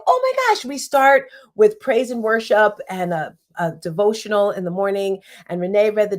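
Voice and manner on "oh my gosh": exasperated. Retold or imitated. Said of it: "I just couldn't seem to get it together".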